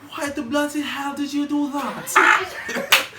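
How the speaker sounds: loud, high, slow British shout; hammed-up British outrage, every word stretched; British cussing. Showing friends how a Brit would cuss, mock-angry British accent. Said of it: "we can't go down and cuss and say".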